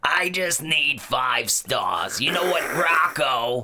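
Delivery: raspy chain-smoking woman voice. Challenged to do that voice, the speaker performs it: Mrs. Bighead smoker voice. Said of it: "the the smoker lady".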